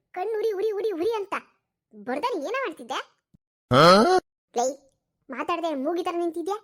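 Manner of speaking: grumbling granny barking for her towel; scolding old woman. Acted. (ಮುದುಕಿ ಜಯನನ್ನು ಬೈಯುತ್ತಾ towel ಕೇಳುವುದು)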